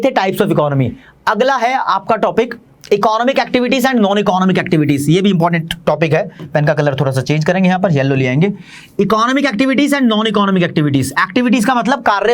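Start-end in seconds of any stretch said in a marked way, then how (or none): 1.3-5.1 slow dictation. Shown as a demonstration. Teacher announces new topic slowly. 9.0-11.1 slow, word by word, as if writing on the board; slow dictation. Shown as a demonstration. Teacher writes heading on board.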